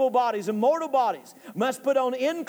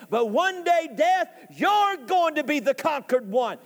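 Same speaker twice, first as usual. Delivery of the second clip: raised, declamatory challenge; taunting Death; 3 semitones higher than usual. Acted. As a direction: remind Death defiantly that it will lose. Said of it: "he begins to taunt him and remind him".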